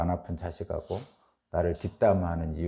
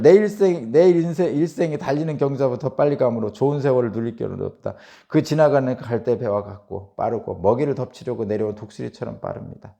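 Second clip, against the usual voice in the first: loud, raised declamatory reading; scripture reading; 4 semitones higher, 9 dB louder than usual. Acted. Preacher reading Job's words to congregation, loud scripture reading. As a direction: read the verse out forcefully. Reads scripture aloud in sermon.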